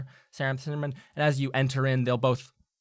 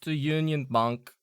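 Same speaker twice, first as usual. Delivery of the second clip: louder put-upon gnome voice; grumbling gnome; 4 semitones higher, 7 dB louder than usual. Acted. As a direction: complain formally as a gnome. GM voicing the gnome.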